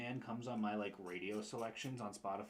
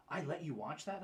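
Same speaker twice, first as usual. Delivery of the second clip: higher-pitched imitation of an incredulous woman; mock incredulous question; retold disbelief; 6 semitones higher than usual. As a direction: quote her astonished question, pitched up. Retelling a woman's disbelief at him.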